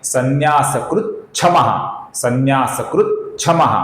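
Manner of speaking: संन्यासकृत क्षमः joined so t and sh merge into chh; sandhi pronunciation. Shown as a demonstration. Teacher demonstrates the sandhi, t plus sh becoming chh. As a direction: run संन्यासकृत क्षमः together as sanyasakruchchhamah. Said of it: "इसका बन जाता है".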